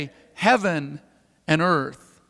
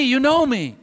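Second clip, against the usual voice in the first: higher, friendly "You know me" with the stress on know; warm reassurance; 4 semitones higher than usual. Acted. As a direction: tell an old friend he knows you. Jesus reassures his old friend.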